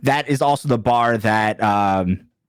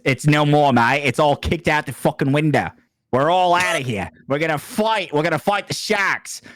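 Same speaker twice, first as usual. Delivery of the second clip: emu leader quote; 4 semitones higher than usual. Retold or imitated. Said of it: "he said it like this".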